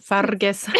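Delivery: light Scottish accent on the name. Shown as a demonstration. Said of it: "It's fun to say that name in, like, a Scottish accent".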